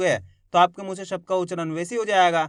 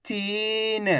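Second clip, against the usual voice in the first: whole word in one go, vowels held; syllables joined; 6 dB quieter than usual. Shown as a demonstration. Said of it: "तो मिलके बन जाएगा".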